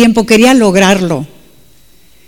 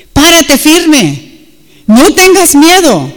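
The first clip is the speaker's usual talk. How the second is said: higher-pitched, drawn-out preacher's charge; emphatic exhortation; 4 semitones higher, slower than usual. Real, not acted. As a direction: urge the congregation to hold their ground.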